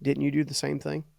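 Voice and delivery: soft, quiet inner voice; an inner voice quietly asks him, soft; small still voice. Retold or imitated. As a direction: let it land softly, like a conscience. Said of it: "a small, still voice that said".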